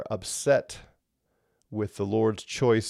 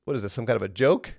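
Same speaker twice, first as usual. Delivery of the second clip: mocking God; much faster than usual. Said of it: "God says".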